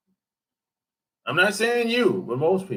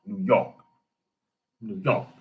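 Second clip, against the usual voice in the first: flat New York; 4 semitones lower, 3 dB quieter than usual. Retold or imitated. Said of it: "That's how they talk".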